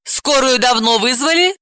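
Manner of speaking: calm. Acted. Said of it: "спокойно спросила Далила".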